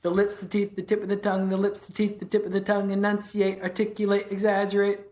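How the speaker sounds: speeding up. Shown as a demonstration. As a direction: speed up each round of the drill. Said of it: "And then you say it faster".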